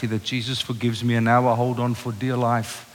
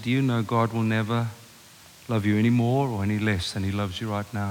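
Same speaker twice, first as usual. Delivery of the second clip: tender; 4 semitones lower, 4 dB quieter than usual. Retold or imitated. Father consoling crying teenage son.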